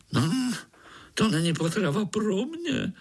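high, disgusted dismissal; fed up. A narrator's reading. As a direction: sniff at the offer. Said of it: "řekl komár otráveně".

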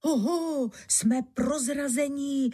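high alarmed robber chief; startled exclamation. A narrator's reading. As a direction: cry out that you're found. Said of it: "zvolal náčelník lupičů".

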